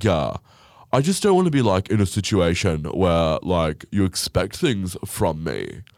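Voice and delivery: mock whiny guy voice; mocking him. Vlogger mimics the husband avoiding dinner bills, mock whiny. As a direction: imitate him, dragging and whiny. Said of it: "he's like".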